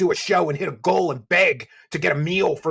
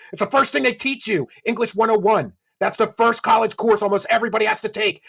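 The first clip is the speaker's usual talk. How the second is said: loud, raised-pitch exasperated rant; indignant lecture; 4 semitones higher, 4 dB louder than usual. Real, not acted. Streamer answers a stealing accusation, indignant and loud. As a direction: school him with scornful indignation. Rebuts a plagiarism accusation with scorn.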